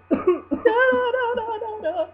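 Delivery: high laughing no's; laughing protest. Real, not acted. Laughing protest at sad scene.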